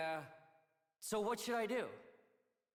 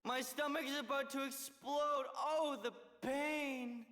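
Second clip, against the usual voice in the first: fake pain act; 2 semitones higher than usual. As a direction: overact a stomach ache. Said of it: "your lame poor me act".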